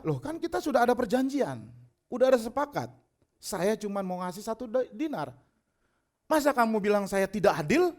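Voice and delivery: mildly affronted landowner's retort; acted rebuttal. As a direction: push back as the accused owner. Vineyard owner rebuts the worker.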